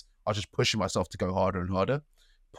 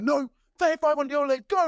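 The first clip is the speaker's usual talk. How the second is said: much higher, loud barked order; coach yelling; 4 dB louder than usual. Retold or imitated. Coach ordering thirty-five more kicks, loud bark. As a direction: shout the order at him. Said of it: "he's like".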